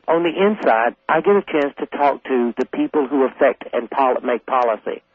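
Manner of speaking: ordinary delivery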